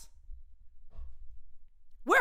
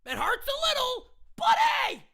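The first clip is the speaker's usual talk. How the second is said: mock carefree manager; 3 semitones higher than usual. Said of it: "the manager comes on and goes".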